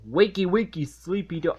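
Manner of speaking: lightly voiced sing-song monster. Reviewer quoting the monster waking SpongeBob, sing-song. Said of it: "This monster guy is saying".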